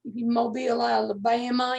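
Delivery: put-on Alabama accent. Grandmother teasing her friend's move south, mock Alabama accent. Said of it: "And with that accent".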